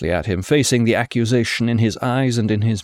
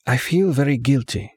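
Vesper's voice; 4 semitones higher than usual. Acted. Vesper's voice, female figure.

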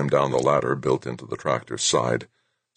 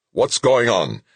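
higher-pitched demanding yell; 7 semitones higher, 4 dB louder, slower than usual. A narrator's reading. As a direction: call out sharply to the sergeant. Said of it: "he yelled to his comm sergeant".

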